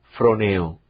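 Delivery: froneo said as fro-NE-o, accent on the E; stress on the E. Shown as a demonstration. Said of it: "con tilde acentuada en la E".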